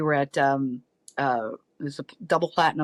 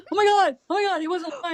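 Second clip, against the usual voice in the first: put-on teen excitement; 14 semitones higher, faster than usual. Son's friends at the rope line, high excited shrieks. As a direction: shriek like starstruck teenage boys. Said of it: "his friends are like".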